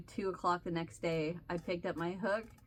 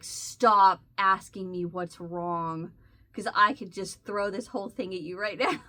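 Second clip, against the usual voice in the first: angry retort; 4 dB louder than usual. Retold or imitated. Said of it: "that was just making me madder".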